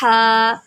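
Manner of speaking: ہا from mid-throat, strong breath; ہا with a firm throaty h, not a light h. Shown as a demonstration. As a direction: push ہا from the middle of the throat. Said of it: "اس طرح آپ نے practice کرنی ہے".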